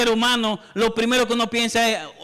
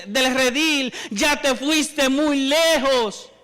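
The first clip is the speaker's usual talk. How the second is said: slow, taunting devil voice pitched a bit higher; devil's voice; 5 semitones higher, slower than usual. Retold or imitated. Preacher voicing the devil's lie to the flock, slow and taunting. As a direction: whisper doubt like the devil, slowly. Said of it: "las frases que el diablo pone en la mente".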